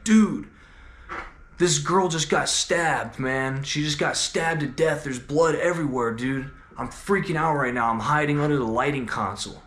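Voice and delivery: half-hearted mock panic, quoting him; retold panic. Friend calling from hiding after a stabbing, mock panic. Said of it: "panicking on the phone, and he's, like, crying".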